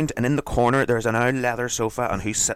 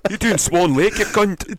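mock angry dad; 9 semitones higher, 6 dB louder, slower than usual. Voicing dad in Billy Elliot.

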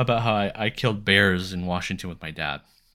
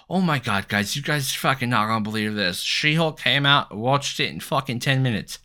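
mocking hyped fan; 5 semitones higher than usual. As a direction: parody an overhyped friend breathlessly spilling news. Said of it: "that's all people talk about these days".

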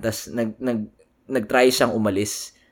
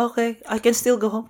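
drunk driver imitation; 11 semitones higher than usual.

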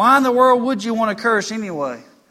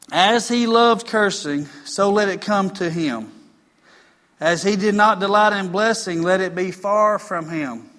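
scripture reading. Acted. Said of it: "Psalm one oh nine seventeen".

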